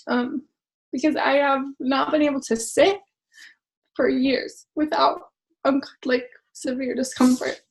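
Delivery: fighting back tears as she speaks; real emotion breaking through, slowed down; tearing up. Real, not acted. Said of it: "I did not know I was gonna cry about this".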